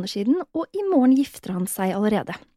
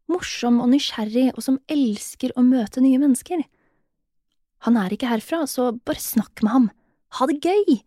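higher, bright-eyed coaxing friend; upbeat friend voice; 5 semitones higher than usual. Acted. Best friend urging her to talk to him, higher and coaxing.

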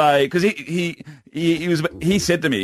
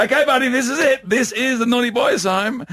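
mock-ominous dad; 10 semitones higher than usual. Dad pulling into the driveway, mock-ominous bluff. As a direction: present the place as a threat. Dad acts out announcing the home.

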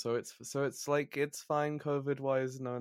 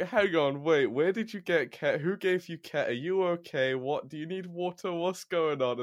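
worried questions; 6 semitones higher than usual. Retold or imitated. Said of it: "I was like".

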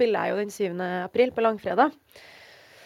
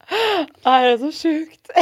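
overwhelmed; 6 semitones higher, 7 dB louder, much slower than usual. Retold or imitated.

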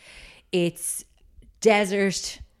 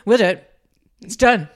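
eager; 4 semitones higher, 8 dB louder than usual. Retold or imitated. Town's eager reply acted out.

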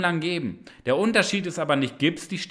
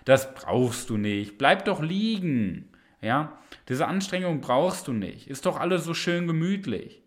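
a hint of a cozy couch tempter; lazy inner voice. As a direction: lure gently toward giving up. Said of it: "wenn diese Stimme kommt und sagt".

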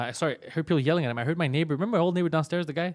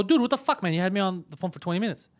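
angry outburst; 5 semitones higher than usual. Retold or imitated. Caller back on the line after hold, angry. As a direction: let him have it.

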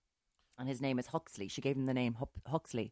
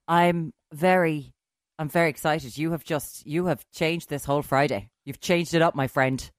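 talking through a bagel; words round a bite of food; mouth full; 8 dB louder than usual. Real, not acted. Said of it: "Sorry, I'm eating my bagel".

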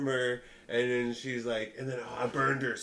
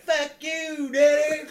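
yelled high and loud; mock yell; 12 semitones higher, 9 dB louder, much slower than usual. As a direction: shout it like a drunk heckler. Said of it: "she's just like".

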